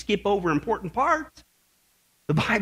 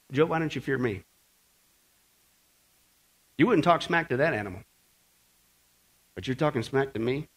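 softer, low stern voice of God; quiet rebuke; 7 semitones lower, 6 dB quieter than usual. Acted. God quietly asking Job why he does not fear him. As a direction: press Job gently but firmly.

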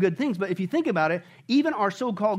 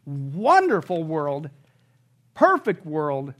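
drawn out slowly and lower; slow, savored; 5 semitones lower, much slower than usual. Real, not acted. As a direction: linger over each word, lower in pitch. Savoring God's perfect world.

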